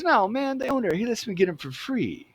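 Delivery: high-pitched cool-cat voice; cool dude. Retold or imitated. Cool dude greeting the new kid behind the counter, imitated high. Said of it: "he's a pretty cool, cool dude".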